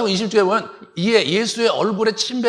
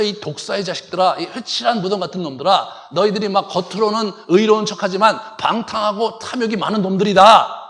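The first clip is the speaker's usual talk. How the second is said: mildly angry denunciation, louder at the end; imitated scolding; 4 dB louder than usual. Preacher voices Jesus denouncing scribes and Pharisees, imitated scolding. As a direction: pour out a retold rebuke, building slightly. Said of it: "마구마구 쏟아내고 계셨던".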